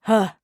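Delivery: short loud grunted huh; gruff grunt. Acted. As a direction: grunt it out dismissively. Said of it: "Silas grunts".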